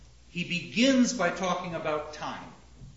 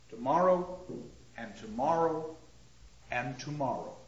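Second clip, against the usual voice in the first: dramatic verse reading. Shown as a demonstration. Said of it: "Macbeth's own statement".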